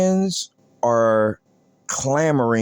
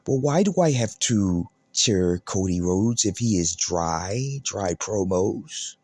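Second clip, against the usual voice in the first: low, much softer mocking of a hushed promo; mock whisper; 7 semitones lower, 5 dB quieter than usual. A vlogger mocking Cody's hushed promo voice, low and soft. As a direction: drop low and soft to mimic him.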